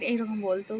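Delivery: ordinary delivery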